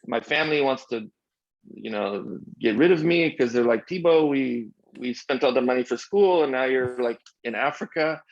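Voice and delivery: put-on amateur French accent quoting exasperated family. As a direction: retell it as the French friend, accent on. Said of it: "I'll do my best French accent here".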